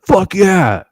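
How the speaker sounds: high excited whoop at the hit; triumphant cheer. Retold or imitated. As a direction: celebrate the hit. Arrow hits the buck.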